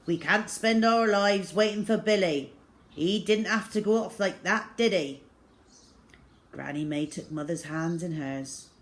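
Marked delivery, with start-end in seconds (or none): 0.0-5.2 louder, sharp and bitter. A narrator's reading. Father cutting off mother's hope, sharp and bitter. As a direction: snap back without looking at her. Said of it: "spoke sharply".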